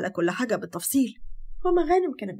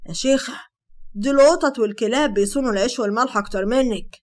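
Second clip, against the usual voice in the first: loud reproachful rant; angry berating; 3 dB louder than usual. Acted. Hamasa scolding Sara for abandoning her friends, loud and bitter.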